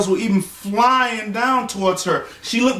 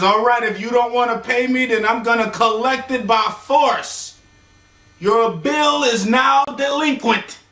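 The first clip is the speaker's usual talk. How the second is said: menacing threat; 3 semitones higher than usual. Retold or imitated. Collector threatens to collect by force.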